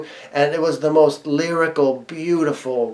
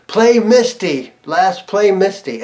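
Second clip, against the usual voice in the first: higher, slow call toward the stage; 5 semitones higher, slower than usual. Retold or imitated. Fan calls his song request up to Les, slow raised call. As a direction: stretch it out like a request shouted at the band.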